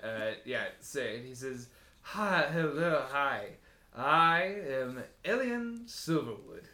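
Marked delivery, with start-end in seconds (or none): 2.0-6.6 slow, formal self-introduction; lightly voiced elf gentleman. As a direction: savour your own name slowly. Wood elf introduces himself.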